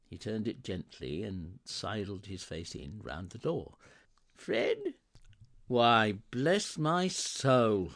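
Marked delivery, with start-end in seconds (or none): 4.3-5.0 very high, questioning call; tentative Scrooge. Acted. Scrooge peeping round the door, tentative. 5.7-7.9 loud, drawn-out amazement; astonished cry. A narrator's reading. Fred seeing his uncle arrive, astonished cry. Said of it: "cried Fred".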